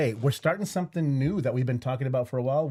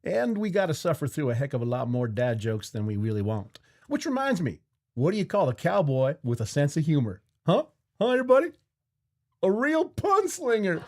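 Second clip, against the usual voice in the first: hammed-up cowboy host in a Western accent; 3 semitones higher than usual. Cowboy host telling Father's Day dad jokes, hammed-up Western accent. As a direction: play up the Western accent, lifting the punchline high. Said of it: "do this accent".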